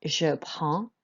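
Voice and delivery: "je prends" slowly, ending on an open nasal vowel; slow French "prends" with silent ending. Shown as a demonstration. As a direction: draw out "je prends", dropping D and S. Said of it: "no D or S pronounced at all".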